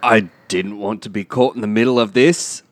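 put-on English accent that sounds Australian; attempted English accent. Caught actor stays in character, Australian-sounding English accent. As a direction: stay in a bad, Australian-tinged English accent. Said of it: "because you sound Australian".

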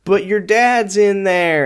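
a put-on flustered teen boy; mock nervous Ricky. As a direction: stall her nervously. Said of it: "he's trying to be like".

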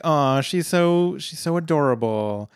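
mock cooing. Everybody reacting to cute, friendly Tanya, cooing. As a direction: imitate a crowd melting over someone cute.

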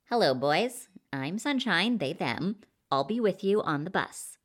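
lightly voiced Sunshine introducing themself; flirtatious Sunshine.

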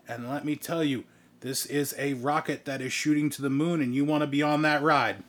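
showy promotional patter; lightly pushed party-host voice; celebrity hype man. Acted. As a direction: hype up a friend to the viewers. Voices celebrity hyping the stream.

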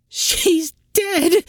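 high wailing cry of grief; shrieking, grief-stricken wail; howling. A narrator's reading. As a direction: howl it out in anguish. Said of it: "Sin howled".

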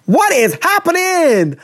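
baffled. Real, not acted. Friend baffled by repeated phrase.

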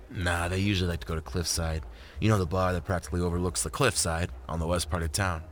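lightly voiced laid-back man, a little low; Isaac, easygoing. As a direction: agree easily in a light male character voice.

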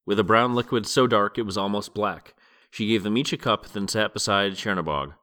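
steady audiobook reading voice; story narration. A narrator's reading. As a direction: read it like a calm audiobook narrator. Reading the novel aloud.

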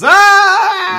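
very loud, high, held "ah" scream; hammed-up shriek of terror; imitating a terrified scream; mock scream. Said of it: "And then Rory goes".

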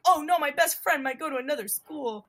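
high, loud mocking lament; mock distress. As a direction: imitate a friend making a big drama of it. Mocking friend's petty worry.

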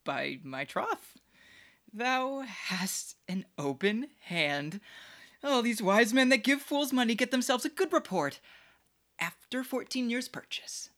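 hammy stage actor. Acted. Fool praises money extravagantly.

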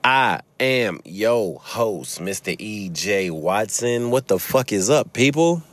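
drawn-out, singsong show greeting; hyped host welcome; podcast intro. Acted. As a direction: open the show with big stretched-out words.

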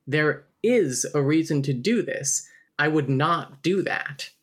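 firm, measured "I would not do that"; emphasis on not. Shown as a demonstration. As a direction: lean on "not" as a deliberate uncontracted word. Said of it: "remove contractions to put emphasis".

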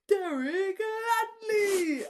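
loud, high, fan cheering the author's name; imitating wild enthusiasm. Friend mimicking Orla's ecstatic fist-bump cheer, loud and high. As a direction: shout the name like a thrilled fan. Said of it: "fist bumps so enthusiastic to the air".

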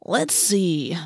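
drawn-out, put-on deliberation; mock pondering. Boy pretending to consider the choice, mock thoughtful. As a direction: pretend to weigh it up. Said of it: "Marco considered".

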